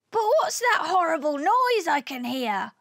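a touch of high-pitched worry; alarmed question. Acted. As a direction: ask it in mild alarm. Alien alarmed by the squawk.

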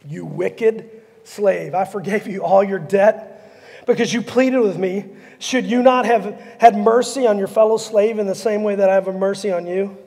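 judge him from the throne; stern king. Acted. King to the wicked servant, gravely rebuking.

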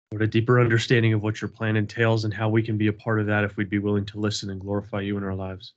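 steady, earnest prayer voice; humble group prayer, even and sincere; opening prayer. Acted. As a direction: lead the group in prayer, unhurried. Opening prayer at Bible study.

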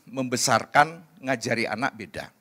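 ordinary talk

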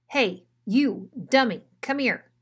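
big dog yelling at the small ones; bully's call. Acted. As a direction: cut through the silence like a chainsaw. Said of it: "voice cut through the silence like a chainsaw".

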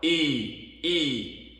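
"I" with teeth shown; teeth showing. Shown as a demonstration. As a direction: spread lips wide on "I". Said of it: "on doit voir les dents".

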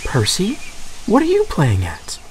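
hurry, no time for this; impatient. A narrator's reading. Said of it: "Thomas said impatiently".

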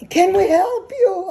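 calling out. Retold or imitated. Farmhands calling out to a stranded girl, loud. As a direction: call out to the girl by the car.

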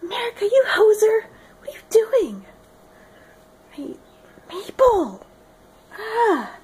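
high-pitched mock Canadian accent; hammed-up Canadian impression; Canadian character voice. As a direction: scold in a squeaky, put-on Canadian voice. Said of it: "Okay, that was horrible".

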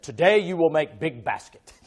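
high, loud broken-English fortune reading, laughing; laughing mock prophecy; mock horoscope voice. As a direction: read the stars' message like a silly oracle. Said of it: "He said".

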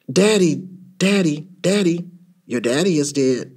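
lightly voiced, repetitive toy bear; talking toy bear. A narrator's reading. Zoo shop bear talking to the child, lightly mechanical. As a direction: repeat like a stuck talking toy, then drop. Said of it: "Bear from the zoo shop is talking".

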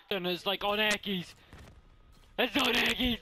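rising excited outburst. Real, not acted. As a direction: blurt it out thrilled. Excited about the game.

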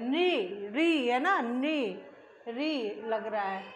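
नी and री contrasted, the r sound drawn out; sounding out syllables. Shown as a demonstration. Teacher showing children the faint r inside the sound. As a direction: let the hidden r in नृप be heard. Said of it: "उसमें र उच्चारण हो रहा है अलग से".

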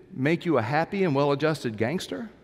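lightly voiced, rising on "and"; tossed off as the therapist's punchline; quoted line. Pastor quoting the film therapist, lightly voiced. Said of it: "Billy Crystal says".

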